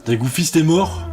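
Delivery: dawning disbelief, rising at the end; puzzled question. Real, not acted. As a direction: ask it as the news sinks in. First notices game character's death. (question incrédule, encore retenue)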